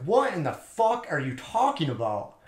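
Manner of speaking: drawn-out mock-baffled retort; retold disbelief. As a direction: act out utter bafflement, spacing the words out. Dumbfounded retort to absurd accusation.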